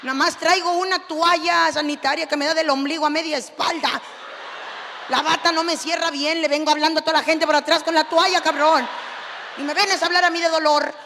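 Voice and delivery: a mother just out of surgery chewing out her husband; angry scolding. Retold or imitated. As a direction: tear into him, building up to yelling. Wife scolding husband in hospital.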